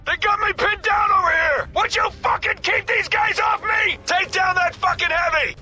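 urgent yell, pinned down; combat shout. Acted. Pinned-down soldier yelling to squadmates, frantic shout. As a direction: shout for cover over the noise.

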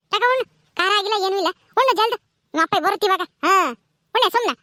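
mildly cross mother; insistent scolding. Acted. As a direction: push a fussy child to eat. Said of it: "ಅನ್ನ ಉಣ್ಣು ಅಂತೇಳಿ ಬಲವಂತವಾಗಿ".

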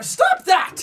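sudden high-pitched protest; startled yelp. Real, not acted. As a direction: yelp it at whatever made you jump. Jump scare in the game.

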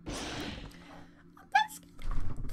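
breathless, unvoiced, slow scared whisper; barely getting the words out; whispered fear. Real, not acted.

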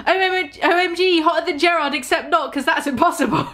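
put-on high, gushing valley girl voice. Reader imitating her own teen gushing, valley girl. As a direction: gush like a fangirl. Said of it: "That's how I talk".

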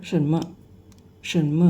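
什么 with the 么 sounded as Thai เมอ; "me" syllable demonstrated. Shown as a demonstration. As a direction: say 什么 ending in a short "muh". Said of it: "จริงๆมันออกเสียงเมอนะ".

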